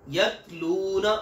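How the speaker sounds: यतलूना with a light, thin ta and no jolt, drawn out; Arabic ta, thin and soft. Shown as a demonstration. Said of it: "बारीक और बगैर झटके वाली".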